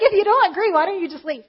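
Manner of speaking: high, loud burst that settles downward; exasperated. Retold or imitated. Group leader fed up with disruptive newcomer, exasperated. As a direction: blurt it out in exasperation, starting high. Exasperated retort about the intruder.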